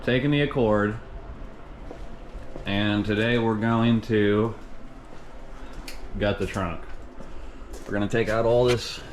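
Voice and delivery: numb mouth after the dentist. Real, not acted. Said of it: "sorry if I'm talking a little funny. My mouth is all numb".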